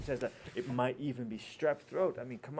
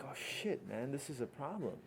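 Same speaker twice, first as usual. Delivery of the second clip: hushed dread; 10 dB quieter than usual. Acted. Doctor's acted dread at hard case.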